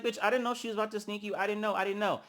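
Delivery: hurried mock excuse; retold denial. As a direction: imitate her protesting innocence. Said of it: "But Natalie's like".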